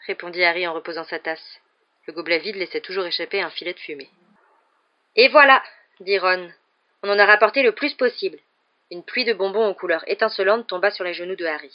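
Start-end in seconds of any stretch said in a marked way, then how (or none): 5.2-8.4 proudly dumps the sweets in a big voice; excited Ron. A narrator's reading. Ron showing off his Hogsmeade haul, excited and loud.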